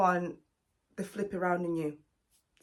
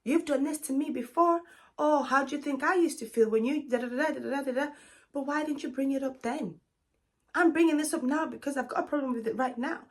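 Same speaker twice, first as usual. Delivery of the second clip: higher, indignant imitation of a deflecting man; mock defensive boyfriend; 5 semitones higher than usual. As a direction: lightly play the man turning it back on her. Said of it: "he'll turn around and be like".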